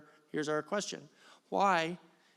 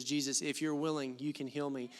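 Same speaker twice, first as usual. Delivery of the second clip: flat familiar reading; 6 semitones lower, 8 dB quieter than usual. Shown as a demonstration. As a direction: lower and softer, offhand and routine. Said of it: "This is how I've always heard this verse".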